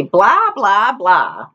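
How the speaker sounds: mocking high "Blah" then falling; rude man's blah. A narrator's reading. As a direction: toss off "Blah, blah, blah" rudely. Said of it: "But he would just say".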